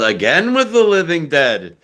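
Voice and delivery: mock Jewish-accented film title; hammed Jewish deli accent. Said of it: "set in a Jewish deli".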